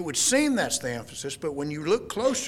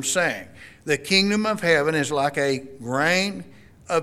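measured King James reading, a lightly lifted Remove hence; formal Bible reading to the congregation; scripture reading; 3 dB louder than usual. Acted. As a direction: read the verse out with solemn weight. Reads the parable aloud.

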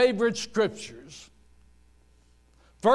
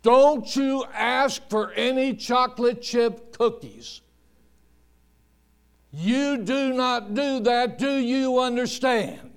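lightly voiced stern mother, measured and firm; 3 semitones higher than usual. Mother warning her little boy in the grocery cart, mildly stern.

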